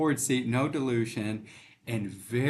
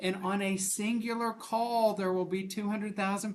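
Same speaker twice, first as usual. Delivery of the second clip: amused amazement; 10 semitones higher, 5 dB louder than usual. Real, not acted. Still laughing, amazed.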